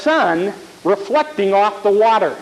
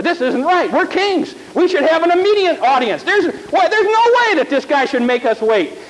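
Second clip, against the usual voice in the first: indignant kings; 6 semitones higher than usual. Acted. Kings complain about waiting.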